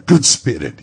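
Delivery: put-on desperate old man's plea; pleading Scrooge. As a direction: beg for a second chance.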